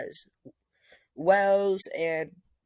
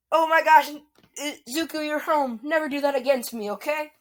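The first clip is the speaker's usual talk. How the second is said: much higher, loud rush of relief; emotional relief; 10 semitones higher, 5 dB louder, faster than usual. Acted. Iris hugging Deku at home, high and overjoyed. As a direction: clutch him and plead, overjoyed.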